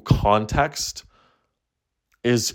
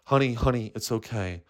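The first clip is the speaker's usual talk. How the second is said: soothing therapist; 2 semitones lower, 7 dB quieter than usual. Acted. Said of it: "and the therapist is like".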